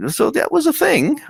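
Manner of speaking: high, deadpan understatement; wry, amused aside; dry amusement. Retold or imitated. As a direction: say it like an unimpressed shrug. Atheists react to pastor's pitch.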